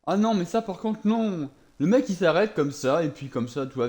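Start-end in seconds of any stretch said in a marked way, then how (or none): 0.0-1.5 indignant outburst. Real, not acted. Raging at unfair game enemy.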